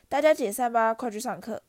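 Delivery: loud call to disperse the crowd. Acted. Teacher sending the crowd to class, loud call. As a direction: raise the voice over the crowd. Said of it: "若哈对人群喊道".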